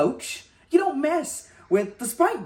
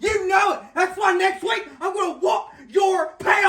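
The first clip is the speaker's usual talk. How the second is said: taunting shout; 5 semitones higher than usual. Acted. Taunting the coach.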